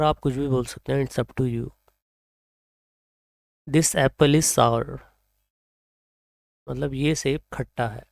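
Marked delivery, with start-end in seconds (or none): 3.7-5.0 very slow, word by word for learners; slow example sentence. Shown as a demonstration. Teacher reading an example sentence slowly to students. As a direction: read it out slowly for the class. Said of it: "मैं इसको बोलता हूँ सावर".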